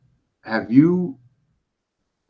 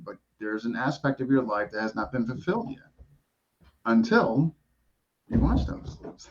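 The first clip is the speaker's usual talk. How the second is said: holding back a laugh; suppressing laughter while teasing; trying not to smile. Real, not acted. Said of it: "I can't even keep a straight face saying this stuff".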